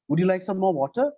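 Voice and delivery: "water" lifted at the end of the question; rising on water. Shown as a demonstration. Teacher showing a rising question to a student. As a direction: raise the pitch on "water". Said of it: "So, water".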